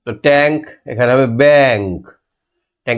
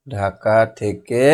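slow dictation; 3 semitones lower, 4 dB quieter, much slower than usual. Shown as a demonstration. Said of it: "এখানে কি হবে?".

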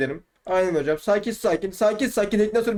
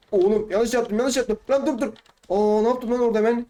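rising higher, flustered panic; panicked; 4 semitones higher than usual. Real, not acted. Player realizing a wrong move, rising flustered panic. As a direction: yelp at your own mistake. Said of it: "çok değişik sesler çıkartıyorum".

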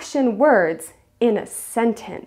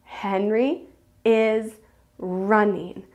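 slow model sentence with "running" set apart; measured teacher model, leaning on "running"; emphasizing the verb; slower than usual. Shown as a demonstration. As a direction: say it word by word, pausing before "running". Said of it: "I'm emphasizing the verb".

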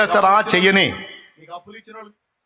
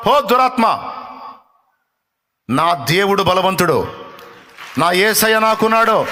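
rebuking the spirit; slower than usual. Shown as a demonstration. Preacher models a rebuke of the spirit, firm. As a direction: speak it with bold faith. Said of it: "చెప్పు దాంతో".

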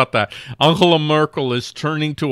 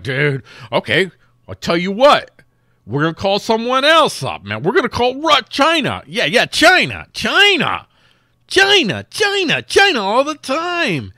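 mock-excited dude voice rising much higher and louder, chanting China; hammed-up excited dude; 11 semitones higher, 6 dB louder than usual. Pakistan hyping China as its new backer, mock-excited dude voice. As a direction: ham it up, each China pitched higher than the last. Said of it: "And Pakistan was like".

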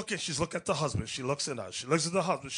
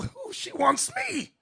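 high, stretched-out swooning; mock giddy delight; 11 semitones higher, slower than usual. Young man thinking an older woman wants him, high and giddy. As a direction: squeal it like a flattered fool.

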